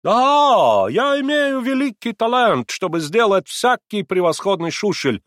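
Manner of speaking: put-on high, loud confirming in German accent; proud German accent. A narrator's reading. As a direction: affirm proudly in broken Russian. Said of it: "снова подтвердил герр Кригер".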